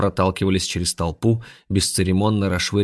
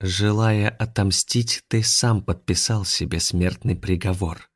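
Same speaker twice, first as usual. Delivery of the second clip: slow menace; slower than usual. Acted. Alien threatens slowly.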